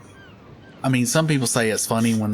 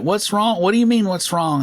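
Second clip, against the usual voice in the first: confused staff; 11 semitones higher, 4 dB louder than usual. Retold or imitated.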